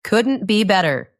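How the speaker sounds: bright smiling delivery of "Couldn't be better"; with a smile. Shown as a demonstration. Teacher models the happy reply to learners, said with a smile. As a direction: say it smiling, full of joy. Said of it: "Let's say it with a smile".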